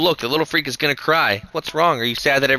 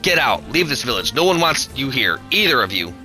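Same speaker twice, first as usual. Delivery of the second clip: angry order; 4 semitones higher than usual. Acted. Bully spits and orders them out.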